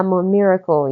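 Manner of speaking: put-on French words said with a French accent; sexy French accent. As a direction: murmur it with a French lilt. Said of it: "you know, sexy French accent".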